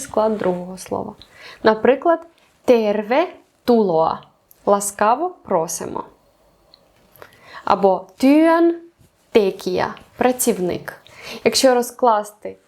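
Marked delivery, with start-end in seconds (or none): 2.6-4.2 терве тулоа, slowly, stressing тер and ту; stress on both words' first syllables. Shown as a demonstration. Teacher showing compound-word stress, slowly stressing тер and ту in терве тулоа. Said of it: "значить наголос на перший склад". 8.2-9.9 työn tekijä, stressing työn and te; stress on both words' first syllables. Shown as a demonstration. Teacher showing compound-word stress, beats on työn and te in työn tekijä. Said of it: "значить наголос на перший склад".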